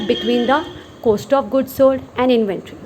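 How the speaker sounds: every word spaced out slowly for note-taking; slow dictation. Shown as a demonstration. Teacher dictating a definition to students, very slowly. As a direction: read it out slowly so students can write it down.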